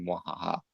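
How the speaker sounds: soft, low mock villain laugh; a hushed little evil cackle; quiet evil laugh. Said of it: "I like the fact that you went, "Mwahaha".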